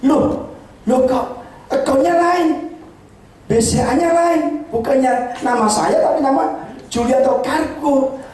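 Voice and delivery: reading it out in shock; mild retold surprise, drawn out. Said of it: "Di email saya kaget".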